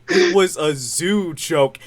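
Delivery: mock protest, words drawn out; slow protest. Cartoon dad defending his joke, slow mock protest. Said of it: "and then Peter goes".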